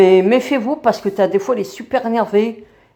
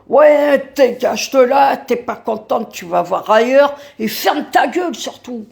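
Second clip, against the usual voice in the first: retold angry driver; 3 semitones higher than usual. A bus passenger mimics the driver who insulted her, angry yell. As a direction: bark the insults back as he threw them.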